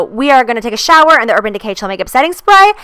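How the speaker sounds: breathless, talking between gasps; winded, short of air; out of breath. Real, not acted. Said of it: "I am out of breath".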